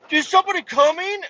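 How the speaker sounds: high, eager clerk voice. Retold or imitated.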